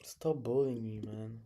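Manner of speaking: whispered mock plea; whispering.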